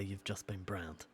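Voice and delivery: mock catchphrase. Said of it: "never going to say".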